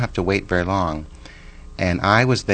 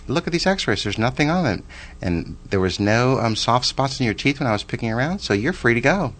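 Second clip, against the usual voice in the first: cheerful all-clear; 4 semitones higher than usual. Retold or imitated.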